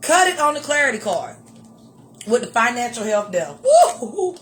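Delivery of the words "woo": laughing whoop. Real, not acted. Laughing at the devil card.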